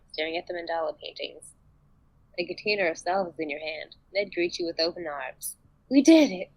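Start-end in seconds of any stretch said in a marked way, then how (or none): 5.9-6.5 high, loud exclamation; triumphant shout. A narrator's reading. Ned greeting his companion with open arms, joyful shout. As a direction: shout the good news out. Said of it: "he shouts".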